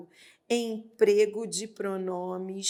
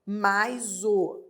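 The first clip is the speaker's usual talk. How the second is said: slow spelling out; 3 semitones lower, much slower than usual. Shown as a demonstration. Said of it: "Amá-lo é só se fosse".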